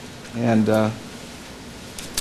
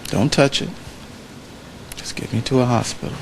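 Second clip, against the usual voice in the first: a softer, steady, unhurried reply; calm and quiet; 9 dB quieter than usual. Retold or imitated. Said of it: "Doctor King calmly said".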